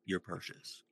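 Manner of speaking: slow, soft ad read; calm announcer voice. Real, not acted. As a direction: read it like a flight attendant announcement. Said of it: "You'd make a really good flight attendant".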